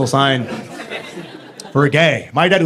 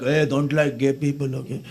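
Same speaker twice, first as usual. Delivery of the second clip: creepy hushed voice; 6 semitones lower, 9 dB quieter than usual. Retold or imitated.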